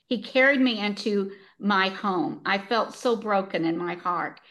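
measured, earnest book reading; story read aloud with clear phrasing; story narration. A narrator's reading. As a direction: read the sad passage aloud with gentle emphasis. Reads a book passage aloud.

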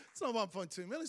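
said through a laugh. Real, not acted. Pastor laughing at the shortfall, laughing. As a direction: let the laugh run through the words.

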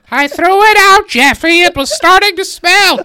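high, loud shrill mom. Pretend. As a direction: shout back like a fed-up mother. Acting out the mother.

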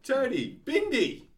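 high, shouted Australian calls; Australian accent. Acted. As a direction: yell the names in broad mock Australian. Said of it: "What's Australian?".

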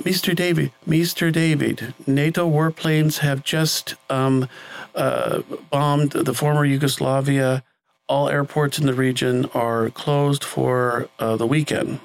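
mock-formal slow bulletin from a producer; worried producer's announcement. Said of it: "the producer came up to us and said".

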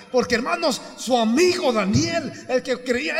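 exultant pulpit storytelling, loud and high; fired-up preaching. Real, not acted. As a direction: preach it at full force. Preaching at full force.

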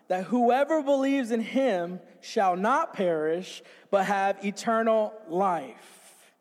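slow, measured Bible reading aloud; deliberate, drawn-out recitation; scripture recitation. Real, not acted. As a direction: lead a congregation through the verse, slowly.

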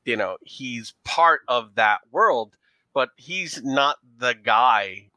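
put-on leaning into a thick New York accent; a New York showgirl playing up her accent. Showgirl answering detectives about her boyfriend, in a New York accent. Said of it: "our New York accent when we lean into it".

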